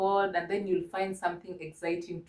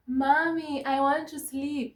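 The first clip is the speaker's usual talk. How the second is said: put-on higher-pitched plea of a sleepy child; lightly acted child wanting sleep; sleepy child to mommy; 5 semitones higher than usual. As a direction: play a tired kid asking mommy for bed. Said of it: "you end up telling your mommy".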